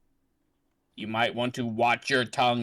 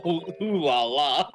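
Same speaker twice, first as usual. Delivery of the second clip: put-on French accent; 5 semitones higher, 4 dB louder than usual. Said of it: "She's French".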